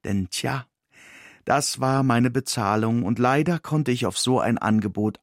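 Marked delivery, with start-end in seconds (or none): none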